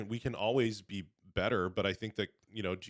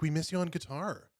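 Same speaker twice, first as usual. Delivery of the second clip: imitating churchgoers; 9 semitones higher than usual. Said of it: "They're like".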